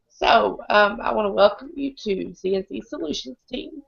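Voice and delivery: hoarse, strained voice; croaking through a sick throat; lost voice. Real, not acted. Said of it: "I don't have any voice tonight".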